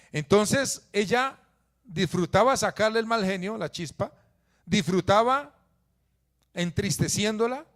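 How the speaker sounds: high and loud, pressing each word; fiery preaching. Acted. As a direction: preach it out to the congregation. Preacher raises voice on Penina. (predicación enfática, más aguda y fuerte)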